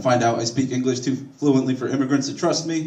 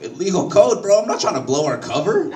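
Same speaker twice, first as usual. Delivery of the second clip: louder, higher mock secrecy; conspiratorial explanation; 7 semitones higher, 4 dB louder than usual. Boss explains to Jose why he hid Spanish, mock secretive. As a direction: explain it like a covert agent. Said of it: "It's like".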